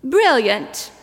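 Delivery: put-on littlest child's exclamation in a New Zealand accent. Littlest angel exclaims at the plan in a New Zealand accent. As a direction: lightly imitate a New Zealand kid exclaiming. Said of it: "the littlest one exclaims".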